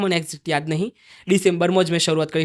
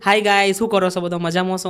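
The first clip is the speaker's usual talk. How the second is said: own casual greeting. Shown as a demonstration. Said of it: "પણ હું". (પોતાની સાબરકાંઠી શૈલીમાં ધીમું સ્વાગત)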